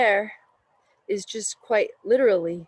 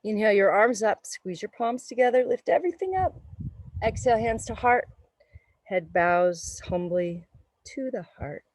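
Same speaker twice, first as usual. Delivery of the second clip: even, mechanical robot voice. Acted. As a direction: call out yoga cues like a robot. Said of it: "I'm talking like a robot today".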